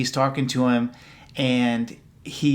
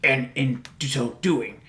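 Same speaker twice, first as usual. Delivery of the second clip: Yoda voice; slower than usual. Retold or imitated. Yoda voiced in retold scene.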